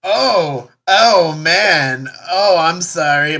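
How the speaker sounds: loud, breathless gushing; gushing delight. Acted. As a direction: ham up the delight. Helga overacting delight.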